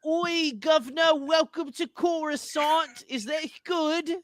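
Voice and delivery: high, slow, put-on Coruscanti voice; cheery high-pitched Coruscant accent, drawn out slowly. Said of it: "You sound like".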